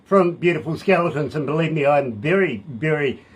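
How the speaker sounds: upbeat on-air DJ voice; host it like a radio show. Acted. Radio DJ interview intro.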